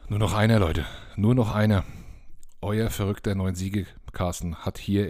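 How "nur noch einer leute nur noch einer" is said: rallying call. Real, not acted. Rallying fans, one more win.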